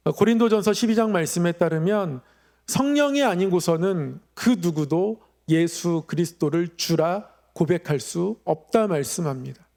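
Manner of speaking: usual speaking voice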